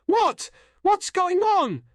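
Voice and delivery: very high, loud, bewildered cry; loud, stretched-out outcry. A narrator's reading. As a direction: drag out a panicked question. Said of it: "I cried".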